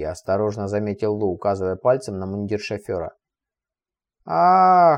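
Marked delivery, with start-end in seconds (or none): 4.2-5.0 chuckled high and loud; a quick hearty chuckle; short laugh. A narrator's reading. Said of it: "хохотнул Кварли". (хохотнув)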